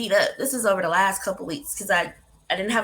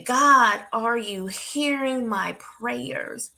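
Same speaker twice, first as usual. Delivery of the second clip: tearful plea; much slower than usual. Retold or imitated. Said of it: "literally say".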